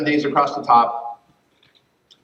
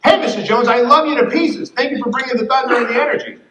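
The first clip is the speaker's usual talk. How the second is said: warm praise text; 9 semitones higher, 4 dB louder than usual. Shown as a demonstration. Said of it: "you show up with a text message".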